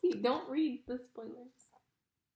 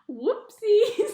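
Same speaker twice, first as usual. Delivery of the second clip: tag; 10 semitones higher, 10 dB louder than usual. A narrator's reading. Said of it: "said Miggery Sao".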